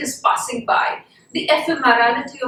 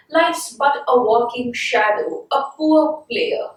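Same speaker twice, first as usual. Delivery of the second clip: slow poetry recitation; slower than usual. Shown as a demonstration. Teacher reciting Macbeth to the class, slow and measured. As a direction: read the line slowly, like verse. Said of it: "Then he says".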